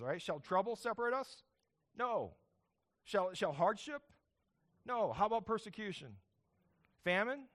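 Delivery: rally the congregation, firing each question; preaching at full force. Acted. Preaching call and response.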